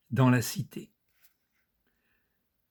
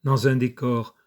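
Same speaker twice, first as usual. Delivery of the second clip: measured recital, pausing after each image; poem reading. Acted. Presenter reading his friend's poem to viewers, measured poetry reading. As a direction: recite line by line, letting the endings fall.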